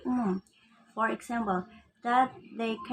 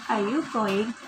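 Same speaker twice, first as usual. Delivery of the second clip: "Are you going?" with a rise on "you"; question intonation; 4 dB louder than usual. Shown as a demonstration. Student demonstrating word order change, rising question. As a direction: ask it as a plain yes-no question, lifting the pitch. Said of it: "urutan katanya, kemudian tekanan, dan intonasi".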